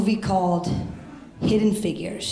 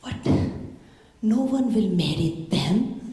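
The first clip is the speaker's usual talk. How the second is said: quoting Indian mom. Retold or imitated. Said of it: "She's like".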